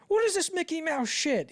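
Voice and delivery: high, loud indignant quote; mock outrage. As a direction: act out a scandalized demand. Acted quote from the book.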